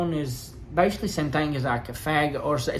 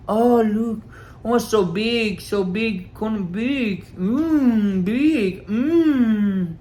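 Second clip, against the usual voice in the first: higher, louder mocking coworker voice; mocking tease; 6 semitones higher, 4 dB louder, much slower than usual. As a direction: ham up her teasing about the size. Coworker teasing about condoms.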